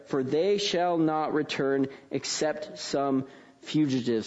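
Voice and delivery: measured, solemn Bible reading; scripture reading. Acted. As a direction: read the prophecy out to the congregation. Reads scripture passage aloud.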